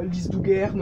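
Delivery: slow, mock French-accented German. Shown as a demonstration. Teacher mimicking learners' bad German, slow French accent. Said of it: "au moins, vous aurez pas l'accent, euh, français".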